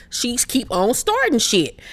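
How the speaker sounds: slow, drawn-out Dorit impression; lightly voiced, slowed-down gossip; imitating Dorit. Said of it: "She was like".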